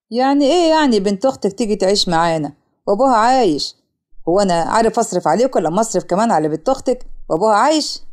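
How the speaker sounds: low-voiced indignant husband; mock angry yelling. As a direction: object angrily without really shouting. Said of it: "صوت زعيق جامد". (جوز خالة متضايق وبيعترض)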